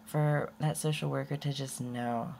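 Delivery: ordinary talk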